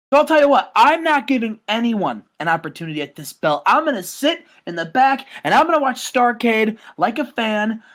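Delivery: boastful heel promo, chest out; cocky wrestler promo. Acted. Podcast host cutting a mock heel promo as the champion.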